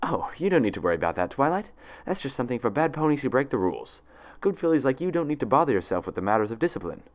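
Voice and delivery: bright, quick, sugary reassurance; falsely sweet and cheerful; bubbly fake cheer. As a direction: cover cold anger with a chirpy grin. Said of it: "Despite the bubbly tone and broad grin".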